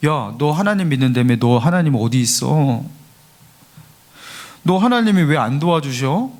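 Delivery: lightly acted mockery of a believer; imitating a scoffer's jeer; mocking. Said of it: "하면서 조롱하는 거예요".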